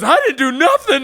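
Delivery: high, loud panicked protest; retold scream. Stranger grabbed in the club, loud high scared yell. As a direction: yell it like you're innocent. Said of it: "he's screaming".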